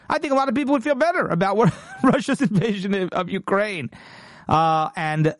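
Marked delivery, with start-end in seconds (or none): 0.1-3.9 laughing in disbelief. Real, not acted. Mocking Kerry's climate logic.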